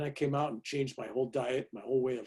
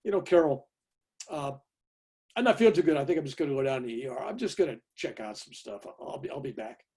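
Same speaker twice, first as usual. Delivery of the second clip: casual understatement to avoid alarm; playing it down. Husband keeping his wife from worrying, casually downplayed. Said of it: "I don't wanna alarm her".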